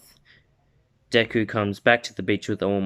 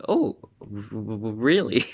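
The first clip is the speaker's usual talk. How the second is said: stammering surprise. Acted. Deku stunned by All Might.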